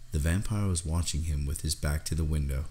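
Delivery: ordinary delivery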